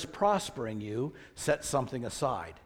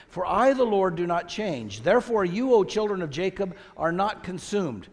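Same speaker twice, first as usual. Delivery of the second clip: higher, emphatic Bible reading; scripture reading; 4 semitones higher, 5 dB louder than usual. Acted. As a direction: proclaim the verse to the congregation. Reads scripture aloud.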